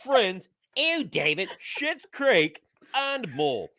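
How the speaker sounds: put-on light British accent on a sponsor read. Producer reads the sponsor spot in a British accent. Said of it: "I like that you went with the British voice".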